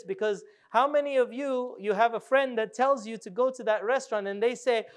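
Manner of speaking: ordinary talk, nothing marked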